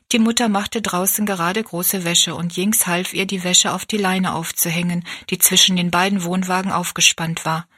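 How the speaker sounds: ordinary delivery, nothing marked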